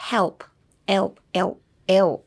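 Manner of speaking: "help" broken down to its dark "el" sound; the "elp" in help. Shown as a demonstration. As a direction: drill "help", dwelling on the "elp". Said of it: "helpのエルプが難しい". (「help」のエルプを強調)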